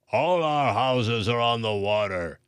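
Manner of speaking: baker's voice, lightly put on. A narrator's reading. Baker answering the coffee shop owner, lightly voiced. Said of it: "the baker responded".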